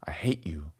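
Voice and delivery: whispered mock hatred at the game; playful whisper. Real, not acted. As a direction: hiss it under your breath, half joking. Frustrated at subscription price.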